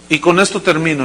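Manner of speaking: ordinary talk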